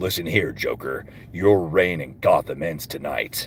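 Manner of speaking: very low, hushed, quiet heroic voice. Speaker asked whether they can do Batman, trying Kevin Conroy Batman voice. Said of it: "I try to do Kevin Conroy Batman".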